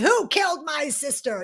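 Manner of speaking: put-on fuming rant, furious and railing with outrage. Retelling how a character storms in: imitating furious railing. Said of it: "she's just fuming and railing".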